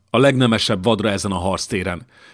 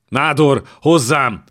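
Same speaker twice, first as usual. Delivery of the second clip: panicked call; 5 semitones higher, 5 dB louder, slower than usual. Acted. King calls the palatine again.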